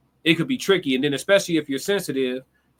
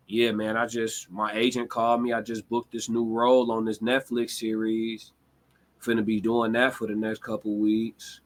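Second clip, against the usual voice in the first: lower, flat and unbothered while sharing big news; mellow tone; 4 semitones lower, 3 dB quieter than usual. Shown as a demonstration. Telling a friend about a new Netflix role, low mellow calm. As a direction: announce booking a Netflix role totally mellow. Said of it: "in a mellow ass tone".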